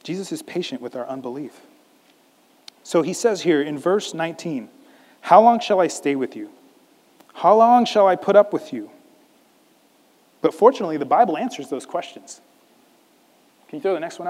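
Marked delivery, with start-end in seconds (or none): 5.2-8.9 frustrated. Acted. Jesus questions the unbelieving crowd, frustrated. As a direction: let mild frustration push the questions louder. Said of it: "he's frustrated and he's asking these questions".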